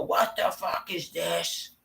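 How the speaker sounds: high, slow, put-on baffled voice; cartoonish disgusted discoverer; mock outrage. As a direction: dig something up and recoil. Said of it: "When you dig that shit up and go".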